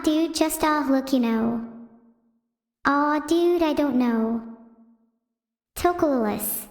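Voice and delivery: rambling streamer bro, lightly voiced; a hint of xQc's loose "dude, you know" drawl; xQc impression. Doing xQc for chat on the boss's request, lightly bro-ish. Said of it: "do an impression of X Q C".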